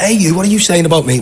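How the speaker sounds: mock-indignant, pitch jumping up; playful mock challenge. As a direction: pretend to take them to task, joking. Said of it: "went in messing around with them".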